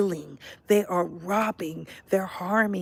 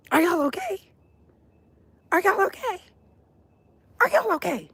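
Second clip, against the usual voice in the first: much higher, sing-song "are y'all okay"; mock concern; 10 semitones higher than usual. Asking viewers if they're okay, high mock concern. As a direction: ask it high and mock-worried.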